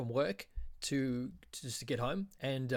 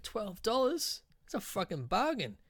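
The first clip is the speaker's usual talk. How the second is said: mock delighted surprise; 8 semitones higher than usual. Told the price by the dealer, high delighted disbelief. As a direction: stretch the price out high, thrilled.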